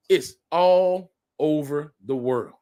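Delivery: spelling out slowly that it's all over the world; slow, drawn-out restatement. Acted. Slow deliberate repeat. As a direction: drag it out slowly, weighing each word.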